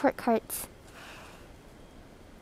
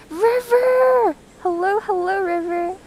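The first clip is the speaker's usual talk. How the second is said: excited greeting; 5 semitones higher, slower than usual. Real, not acted. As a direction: call out happily to a friend. Streamer greets returning viewer.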